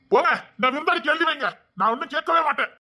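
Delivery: high-pitched, indignant retort; angry defiance. Acted. Son defies mother's inheritance threat.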